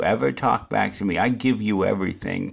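low, measured parental warning; old-country stern parent. Acted. Parent warning a child who talks back, low and stern. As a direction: lay down the law, pitch dropped, slowing at the end. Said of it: "I went old country on him".

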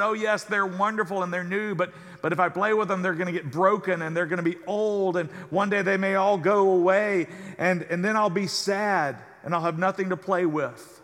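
put-on a worried kid fretting that it will all go away; gloomy little boy.

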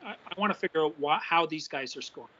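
mic clipping, distorted voice. Real, not acted. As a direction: voice breaking up on a bad mic. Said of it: "Your, uh, voice is, uh, clipping out a little bit".

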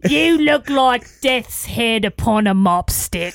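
slow, drawn-out Cockney insult; Cockney accent. Pretend. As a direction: deliver it slowly in a Cockney accent. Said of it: "in a Cockney accent".

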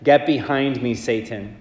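measured, solemn proclamation from the ambo; formal liturgical reading voice; Gospel reading. Acted.

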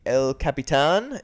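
"Capitan" ending in a long open "tahn"; Spanish-style pronunciation. Real, not acted. Co-host naming the Hollywood theater, Spanish-style. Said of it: "Why do you pronounce it like that".

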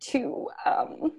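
high, tearful strain while holding it together; choked up, pushing through it with pauses; getting emotional. Real, not acted. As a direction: voice lifted high with real emotion. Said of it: "I'm gonna get emotional".

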